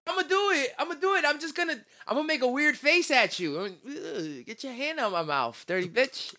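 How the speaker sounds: high squeaky puppet voice; squeaky ventriloquist dummy. Pretend. Acting out squeaky mouthed scene.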